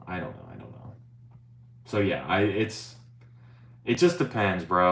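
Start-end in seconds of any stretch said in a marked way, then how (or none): 0.1-0.9 softer and softer until it vanishes; fading away. Shown as a demonstration. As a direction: let it die out to nothing.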